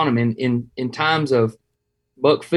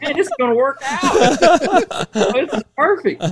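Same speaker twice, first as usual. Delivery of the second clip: mock excited; 11 semitones higher than usual. Mocking own excited reaction.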